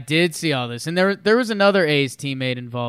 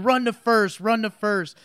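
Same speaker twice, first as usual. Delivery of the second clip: high-pitched imitation of a fuming pitcher; mock huffy order; 7 semitones higher, slower than usual. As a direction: act out a huffy, repeated command. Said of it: "starts huffing and puffing over".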